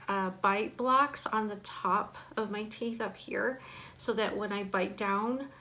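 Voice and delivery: slightly impeded speech from braces. Real, not acted. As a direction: talk around new bite blocks. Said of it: "it is hard to talk".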